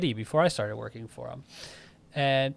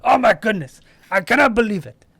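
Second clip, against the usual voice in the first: high, loud theatrical shock; mock dismay; 7 semitones higher, 10 dB louder than usual. Client finds the account closed, mock dismay. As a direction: exclaim in hammed-up disbelief. Acting out sudden account closure.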